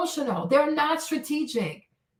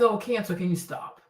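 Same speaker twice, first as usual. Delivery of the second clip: lower, mock-exasperated retort to a crying friend; fed-up retort; 7 semitones lower, 4 dB quieter than usual. Telling off a crying friend, lower and fed up. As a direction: drop the pitch low and tell her off. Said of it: "I said".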